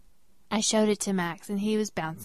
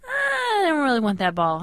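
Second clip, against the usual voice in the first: higher flustered brush-off; 7 semitones higher than usual. Retold or imitated. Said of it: "and I'm like".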